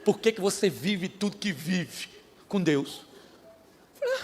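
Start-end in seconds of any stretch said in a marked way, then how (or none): 0.0-3.0 mild puzzled wife. Retold or imitated. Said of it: "ela falou comigo assim".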